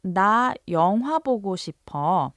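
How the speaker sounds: fast casual 나 영화 보고 싶어; quick Korean line. Shown as a demonstration. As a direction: rattle off 나 영화 보고 싶어 quickly. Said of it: "if your friend says".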